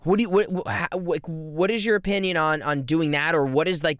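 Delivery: ordinary delivery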